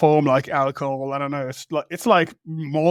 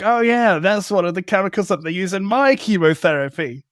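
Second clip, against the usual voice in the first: lightly excited retelling, higher at the start; excited quote; 3 semitones higher than usual. Retold or imitated. Retelling a creator's reply about chemotherapy chemicals, mildly excited. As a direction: imitate someone eagerly sharing a discovery. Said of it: "And then excitedly, he's like".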